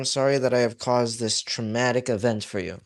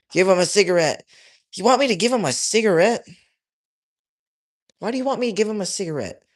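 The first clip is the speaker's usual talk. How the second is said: higher, quick, baffled questioning; incredulous; 6 semitones higher, 4 dB louder, faster than usual. Real, not acted. Streamer questions a viewer's cigarette suggestion, incredulous. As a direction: throw the odd request back in disbelief.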